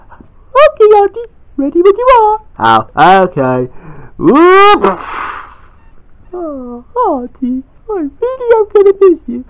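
high, hushed then fond; high girl voice. Acted. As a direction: say goodbye to Auntie sweetly. Girl figure says goodbye.

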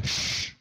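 Shh as a long unvoiced carioca hiss; slushy sh for s. Shown as a demonstration. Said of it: "Carioca fala chiando".

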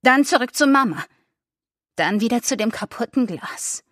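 ordinary delivery, nothing marked

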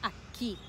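aquí with weight on KÍ; teacher's model "aquí", last syllable stressed; stress on final syllable. Shown as a demonstration. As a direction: land on the "quí" of aquí. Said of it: "is the emphasis".

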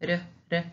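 "r, r" as two short single tongue taps. Shown as a demonstration. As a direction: flick the tongue once for each r. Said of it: "that's the single pronunciation of one only".

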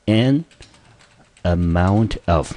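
"an amount of" drawn out slowly, "amount" stressed; slow model phrase. Shown as a demonstration. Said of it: "我们经常看到的一个片语".

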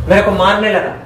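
aggrieved complaint. Acted. Complaining to the brother-in-law about the beating, loud. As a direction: show the blows indignantly.

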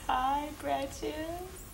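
slow cooing. Real, not acted. Cooing at baby.

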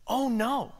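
soft, understated "oh no"; retold dismay. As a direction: quietly let the bad news slip out. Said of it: "this is what she says".

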